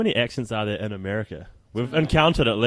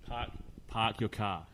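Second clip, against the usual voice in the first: New Zealand accent; 12 dB quieter than usual. Shown as a demonstration. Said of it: "tutorial phrase".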